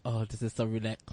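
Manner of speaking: low, softened mock bliss; relaxed. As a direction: sink into a soothed murmur, playfully. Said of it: "just be like".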